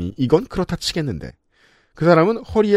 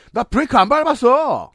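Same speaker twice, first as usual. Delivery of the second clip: higher, disbelieving retort; incredulous; 11 semitones higher than usual. Retold or imitated. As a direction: say it like it's absurd. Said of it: "어이없다는 말투로". (어이없다는 말투)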